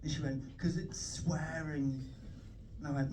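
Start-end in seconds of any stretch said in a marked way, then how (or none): 0.6-2.0 hushed, very drawn-out explanation; mock prim mum. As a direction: lightly imitate a pious mum lowering her voice over a taboo. Retelling pious mum's scandalised explanation.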